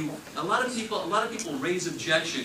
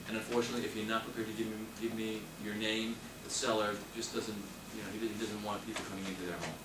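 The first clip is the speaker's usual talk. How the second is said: calm scripted explanation; 4 semitones lower than usual. Shown as a demonstration. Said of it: "say, you know".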